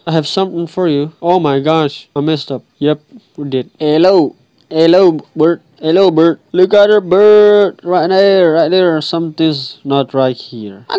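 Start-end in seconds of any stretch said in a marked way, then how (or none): 3.8-9.0 excited greeting. Real, not acted. Greeting a bird in game.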